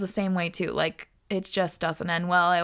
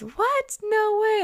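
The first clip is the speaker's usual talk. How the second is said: high, astonished gasp; shocked disbelief; 11 semitones higher, much slower than usual. Pretend. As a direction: react like you can't believe it. Imagined listeners' shocked reaction.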